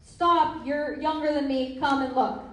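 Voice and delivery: loud, pushy command; forceful insistent urging; aggressive push. Shown as a demonstration. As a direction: boss them into coming.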